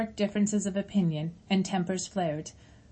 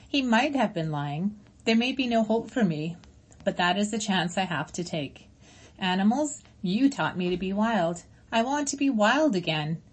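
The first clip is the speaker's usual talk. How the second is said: gentle robot voice. Acted. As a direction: speak as a caring robot to old friends. Roz explains her choice.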